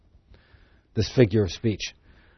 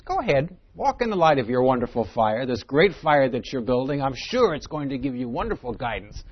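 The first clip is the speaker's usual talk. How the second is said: sarcastic. Acted. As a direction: egg them on with false approval. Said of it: "That's sarcasm".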